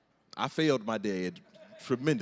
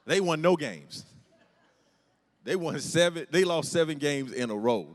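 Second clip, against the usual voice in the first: louder, higher rant about the losing team; disbelieving loud complaint; exasperated outburst; 3 semitones higher, 6 dB louder than usual. Real, not acted. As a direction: blow up over the losing record.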